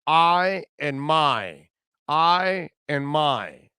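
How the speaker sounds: imitating a Southern coach accent, very slow, leaning on "my"; slow mock Southern drawl stressing "my". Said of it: "Notice how he says".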